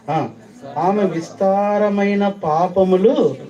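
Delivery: high, loud pulpit voice; fiery sermon delivery; full-force preaching. Real, not acted. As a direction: drive each point home to the congregation.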